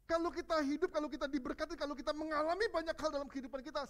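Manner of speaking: high and loud fervent preaching; preaching at full force. Acted. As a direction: drive the point home to the whole church. Preaching climax to congregation.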